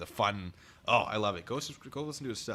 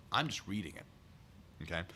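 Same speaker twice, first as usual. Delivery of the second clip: slow disclaimer; 3 semitones lower, 7 dB quieter, slower than usual. Real, not acted. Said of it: "I didn't say it".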